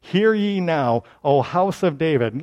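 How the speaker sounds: measured formal summons; a slowed, official call to attention; official proclamation. Acted. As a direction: proclaim it like a herald. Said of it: "he's got an official now".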